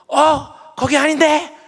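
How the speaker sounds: very high, loud, slow shout.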